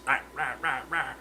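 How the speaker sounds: imitated "rah rah rah" snarling; mock snapping fish. Streamer imitating his fish attacking, playful mock snarl. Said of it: "did you see that? Like, he was".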